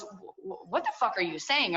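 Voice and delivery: stammering, breathless start, then fast; imitating a shocked mother; shocked mom. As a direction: sputter in disbelief. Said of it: "she goes".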